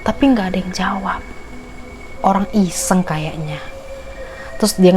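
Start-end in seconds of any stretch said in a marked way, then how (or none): 0.1-1.2 whispered no answer. Retold or imitated. Scary silence in story.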